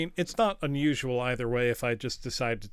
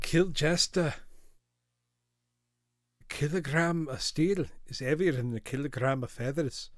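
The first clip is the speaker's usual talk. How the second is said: Limmy impression; 3 semitones higher than usual. Streamer quoting a Scots streamer's meme, in a Scots accent. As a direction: do your best Limmy in Scots. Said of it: "my best Limmy impersonation".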